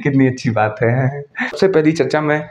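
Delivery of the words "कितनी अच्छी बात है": chuckling, smug and low; smug laugh. Real, not acted. Vlogger chuckles smugly after threatening Pakistan. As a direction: laugh it off with satisfaction.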